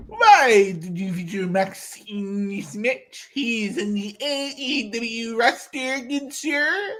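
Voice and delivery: lightly voiced smug know-it-all, slow; Fedora guy voice. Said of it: "the Fedora guy voice".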